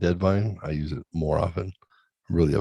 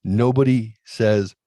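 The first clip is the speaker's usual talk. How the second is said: imitating annoyed son; 4 semitones higher, 4 dB louder than usual. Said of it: "He's like".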